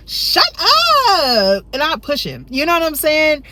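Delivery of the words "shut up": playful loud shut up; mock shout. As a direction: snap it at him, playful. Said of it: "I'd be like".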